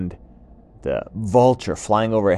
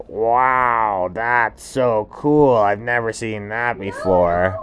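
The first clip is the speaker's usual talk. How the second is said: louder, amazed iguana; 3 semitones higher, 4 dB louder, slower than usual. Acted. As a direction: gasp in wonder at the lava. Iguana sees lava.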